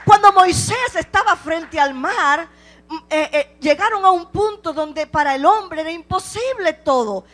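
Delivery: full-force preaching, voice rising and pounding; predicación enfervorizada. Acted. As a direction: preach it out to the congregation. (predicando con fuerza)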